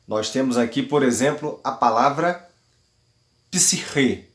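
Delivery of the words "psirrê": psirrê with the accent on the final Ê; stress on final syllable. Shown as a demonstration. Greek teacher showing the acute on the last syllable of psirrê, final-syllable stress. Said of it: "O acento agudo está no E, na última sílaba".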